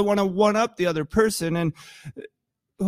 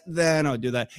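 bargaining then; 5 semitones lower than usual. Acted. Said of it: "And if then".

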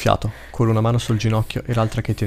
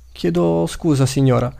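polite, raised opening on the apology; courteous; 5 semitones higher than usual. A narrator's reading. Gwen addressing the children's mother, courteously. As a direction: politely catch a stranger's attention. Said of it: "dice Gwen cortesemente".

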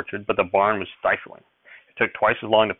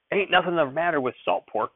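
put-on crotchety old grandfather, pitched up; testy, higher-pitched rustic retort; snapped; 7 semitones higher than usual. A narrator's reading. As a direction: snap back in defence, high-pitched. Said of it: "Grandfather snapped at him".

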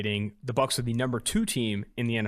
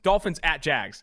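put-on slow, drawn-out London accent slipping away; wavering London accent; 3 semitones higher, 3 dB louder, slower than usual. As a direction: let the fake accent drift and fade. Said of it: "the accent keeps changing".

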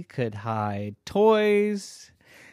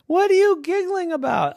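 higher, louder demand; insistent louder question; 6 dB louder than usual. Acted. Boy demanding why his parents giggle, louder and insistent. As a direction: press them harder this time.

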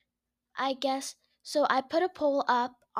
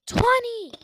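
boastful shout; 10 semitones higher, 4 dB louder than usual. Acted. Cheating count on weights.

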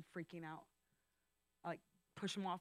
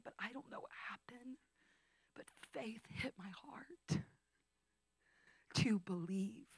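awed whisper; 7 semitones higher than usual. Real, not acted. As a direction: whisper the moment of breakthrough in awe. Emotional climax of testimony.

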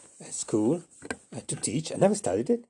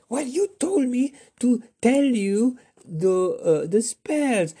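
much higher, slow; defensive whine; 13 semitones higher, 4 dB louder, slower than usual. Acted. Flapperjack protesting to Asparagus, high slow whine.

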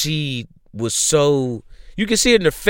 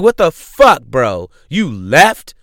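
retold anger; 6 dB louder, slower than usual. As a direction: act out an angry, disbelieving wife. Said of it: "she's angry".

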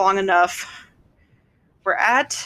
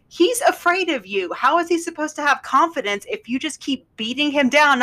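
mock defending mother; 6 semitones higher than usual. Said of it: "She's like".

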